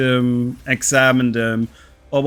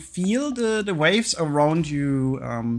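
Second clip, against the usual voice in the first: game master narration. A narrator's reading. GM narrates sinking scene.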